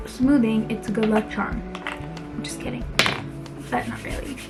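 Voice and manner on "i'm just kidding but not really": whispered joke. Real, not acted.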